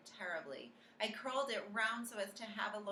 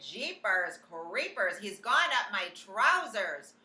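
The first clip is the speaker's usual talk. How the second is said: panicked cook; 5 semitones higher, 10 dB louder, slower than usual. A narrator's reading. Cook panicking over mouse.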